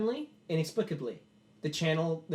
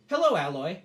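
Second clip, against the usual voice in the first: mimicking robot echo; 3 semitones higher, 7 dB louder than usual. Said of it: "the Alloy goes".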